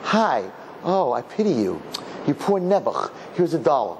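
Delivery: mock pitying almsgiver; lightly acted self-important sympathy; condescending pity. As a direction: hand out charity with showy pity. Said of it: "That's about you".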